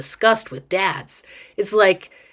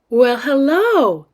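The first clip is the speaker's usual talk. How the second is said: slow, higher, drawn-out greeting; gushing mom; 5 semitones higher, 4 dB louder, slower than usual. Acted. Mom greets girl holding son's hand, gushing delight. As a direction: greet a child with sugary delight.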